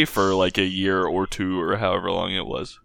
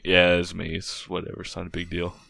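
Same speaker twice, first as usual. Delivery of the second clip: offhand, trailing much softer; nonchalant; 4 dB quieter than usual. Retold or imitated. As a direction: shrug it off. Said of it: "nonchalantly just be like".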